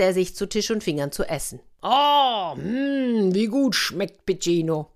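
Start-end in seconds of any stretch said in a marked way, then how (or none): 1.8-4.9 gedehntes, hohes Oh und Hm beim Schlemmen; genießerisch schwärmen; genüsslicher Orko. A narrator's reading. Orko genießt schmatzend sein Essen. (genüsslich schwelgend)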